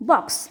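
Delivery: "box" with a short O; short vowel. Shown as a demonstration. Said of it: "let us see the short vowel sound". ("box" में छोटा ओ स्वर)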